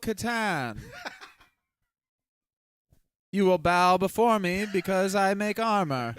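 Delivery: booming imperious armor voice; dark lord. Acted.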